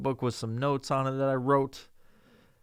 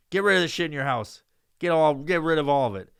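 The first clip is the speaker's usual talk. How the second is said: louder, forceful repeat of the order; louder demand; 3 semitones higher, 6 dB louder than usual. Retold or imitated. Son ordering his mom to clear out the house, louder insistence. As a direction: lean in and insist harder.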